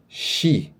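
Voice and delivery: "shi" drawn out slowly with a SH sound; slow syllable demo. Shown as a demonstration. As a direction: stretch out "shi" carefully. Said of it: "vai ficar". ("shi" bem devagar, com som de X)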